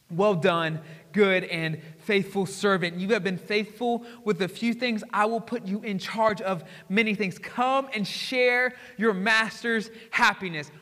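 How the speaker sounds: slow, gentle loving words; tender blessing. Acted. Jesus welcoming a faithful believer, tender and slow. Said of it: "picture him coming back and saying this to you".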